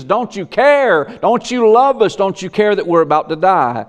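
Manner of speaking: high, anxious plea to Jesus; mock the panicked apostles; frightened disciples. Apostles in the storm.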